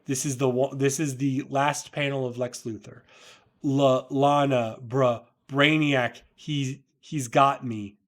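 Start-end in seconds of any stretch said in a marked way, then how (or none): 3.6-8.0 slow, halting, broken plea; desperate plea. Acted. Luthor begging Lana under Brainiac's control, slow and broken. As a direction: drag each word out as if struggling.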